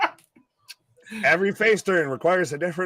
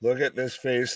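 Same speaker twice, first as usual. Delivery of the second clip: Dark Knight voice; 5 semitones lower, 4 dB quieter than usual. Pretend. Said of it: "That was a Dark Knight voice".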